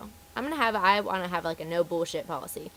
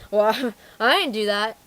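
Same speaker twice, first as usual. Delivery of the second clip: slow, louder mock protest; mock indignant denial; 6 dB louder, slower than usual. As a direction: act out an affronted customer. Customer denies fault, acted out.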